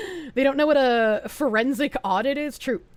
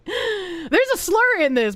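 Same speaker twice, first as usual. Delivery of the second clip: laughing repeat; 7 semitones higher, slower than usual. Real, not acted.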